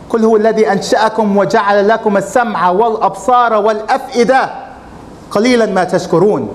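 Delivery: quick, flowing Arabic recitation of a verse; Quran recitation. Acted. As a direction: recite the verse rapidly from memory, melodic.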